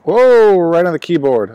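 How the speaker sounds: sudden high, loud whoa of alarm; real surprise, pitch jumping up; startled whoa. Real, not acted. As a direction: jolt up as the ash falls on the keys. Ash dropped on keyboard.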